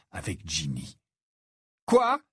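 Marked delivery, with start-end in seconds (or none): 1.9-2.2 high, louder startled question; bewildered rising yelp; slightly lost. A narrator's reading. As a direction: blurt it out, caught off guard. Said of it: "dit-il un peu perdu".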